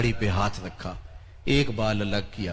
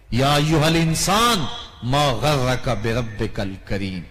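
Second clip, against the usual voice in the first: recited verse; slower than usual. Acted. Quranic recitation.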